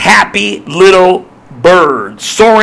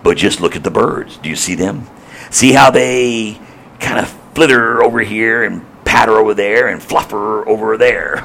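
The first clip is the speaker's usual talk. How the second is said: gentle storyteller Jesus; 6 semitones lower than usual. Acted. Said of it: "I can just see Christ Jesus saying".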